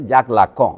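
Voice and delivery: French name, nasal final vowel; French pronunciation. Shown as a demonstration. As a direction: sound out জাক লাকঁ the French way. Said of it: "নাম হচ্ছে জাক লাকঁ".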